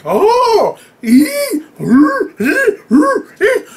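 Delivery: high, loud pained squeals; goat straining. Retold or imitated. The goat pulling against Loki, high pained squeals. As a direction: squeal like a goat yanked by the beard. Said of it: "the goat's like".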